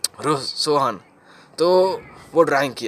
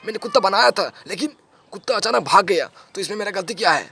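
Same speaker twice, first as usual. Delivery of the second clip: lightly voiced schoolboy, higher pitch; son's innocent question; 4 semitones higher than usual. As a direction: quote the boy pleading his innocence, pitched up. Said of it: "उसने आपसे बस इतना ही पूछा ना कि".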